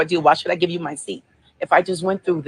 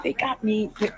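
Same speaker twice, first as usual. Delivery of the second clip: teary and angry. Real, not acted. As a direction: speak through real tears, voice subdued. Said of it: "tears in my eyes 'cause I'm so angry right now".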